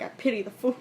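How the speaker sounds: put-on light New York accent. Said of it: "it's a New York accent".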